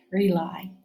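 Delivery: whispered word. Shown as a demonstration. Teacher models word to repeat.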